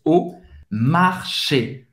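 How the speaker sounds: "Au" pronounced as a plain O, drawn out slowly; slow "Au marché", first word sounding O. Shown as a demonstration. Teacher modelling au marché slowly, AU as O. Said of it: "o A U tem o som do O".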